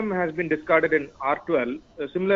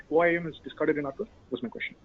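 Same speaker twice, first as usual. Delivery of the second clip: barely audible; 5 dB quieter, faster than usual. Real, not acted. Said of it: "Your voice is very low".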